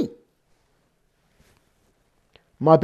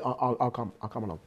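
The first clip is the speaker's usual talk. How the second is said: soft promise; 7 semitones lower, 8 dB quieter, much faster than usual. Acted. Gentle divine promise.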